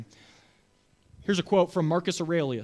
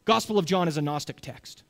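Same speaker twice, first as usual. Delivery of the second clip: raised, insistent voice of accusing scholars; mock scholars; 6 semitones higher, 5 dB louder than usual. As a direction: play the scholars sure they caught John out. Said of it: "caused scholars to say".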